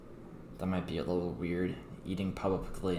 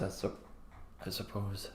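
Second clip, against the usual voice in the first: burping; 8 dB quieter than usual. Real, not acted. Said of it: "Sorry, I'm burping a lot right now".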